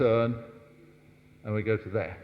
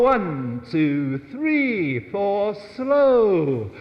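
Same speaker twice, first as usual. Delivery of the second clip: loud, higher counting out the beat; called-out count; 6 semitones higher, 5 dB louder, much slower than usual. Shown as a demonstration. Teacher calling the count to the couple, loud and high. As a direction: call the count to the dancers. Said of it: "counting the dancers through the step".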